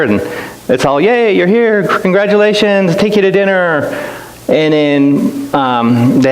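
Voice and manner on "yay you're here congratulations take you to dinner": higher, bright mock greeting; cheery welcome. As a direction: play the welcoming team, pitched up. Team greeting at the airport.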